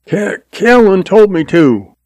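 put-on high-pitched scared kid voice; frightened boy talking back; defiant, frightened youngster. A narrator's reading. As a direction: stammer it out high, defiant but afraid. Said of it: "the youngster froze with defiant fear".

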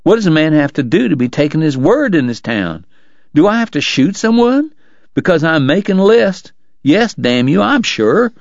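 indignant dentist insisting he can ride the race, huffy; Doc, indignant. Acted. Doc's indignant outburst.

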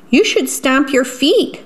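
high singsong urging; eager animal suggestion. Acted. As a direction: pitch it up like a helpful storybook animal. Animal giving Jim advice.

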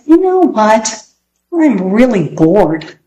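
put-on bored child voice. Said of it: "slouched in a chair".

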